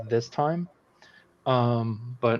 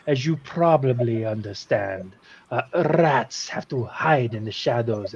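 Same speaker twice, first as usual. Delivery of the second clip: lightly voiced theatrical monarch; Rat King. King apologizing to children for a trick, formal character voice. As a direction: explain yourself with formal flourish. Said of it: "I forgot my Rat King voice".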